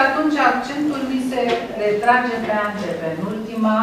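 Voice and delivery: ordinary talk, nothing marked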